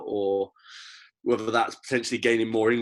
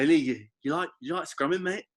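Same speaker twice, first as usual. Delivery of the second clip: higher, lightly imitated friendly coach question; mock nice; 6 semitones higher than usual. Coach to demoralized Hilly after the drill, mock nice. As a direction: play the coach turning sweet, voice lifting. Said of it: "he's all, like, nice again".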